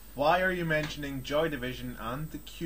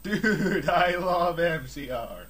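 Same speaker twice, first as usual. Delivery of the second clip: slow, lazy stoner drawl, slightly higher; lightly voiced laid-back stoner; a hint of a mellow stoner dude; 4 semitones higher, 3 dB louder, much slower than usual. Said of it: "Is that like".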